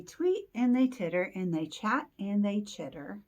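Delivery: lively read-aloud, slowing at the end; story narration. A narrator's reading. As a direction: draw out the last phrase for children. Reads picture book aloud.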